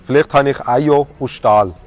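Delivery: put-on rhyming pickup lines with a Thurgau accent; mock Thurgau dialect, verse by verse; Thurgau German. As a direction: recite a little love poem in put-on Thurgau dialect. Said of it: "Das Ganze natürlich im Thurgauer Deutsch".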